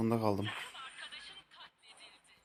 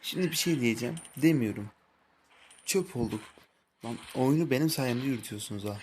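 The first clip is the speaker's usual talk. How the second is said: angry rant; 4 dB louder than usual. Real, not acted. Ranting at teammates after a loss.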